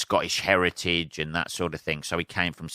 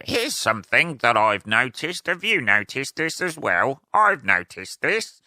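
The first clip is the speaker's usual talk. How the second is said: mock observational comic; 5 semitones higher than usual. Mocking lazy comedians to his listeners, in a sing-song comic voice. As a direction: send up a lazy stand-up asking the crowd. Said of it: "the say what you see comedy".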